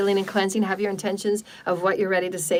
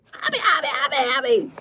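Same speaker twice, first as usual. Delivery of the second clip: higher, laughing sing-song; giggly happy; 6 semitones higher than usual. Real, not acted. Healer cheering up her listeners, giggling. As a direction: giggle the words out.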